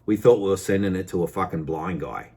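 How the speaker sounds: lightly voiced supplier grumbling, imitated; mock caught-out supplier. Customer imagining the supplier's excuse, lightly mocking. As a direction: imitate a sheepish excuse at an everyday level. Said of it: "And I'll be like, "Damn it".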